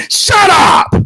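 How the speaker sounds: high-pitched yell, drawn out at the end; fed-up outburst, each word stretched; exasperated shout. Real, not acted. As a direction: shut him down with a slow, punched-out yell. Fed-up outburst at the boxer's demands.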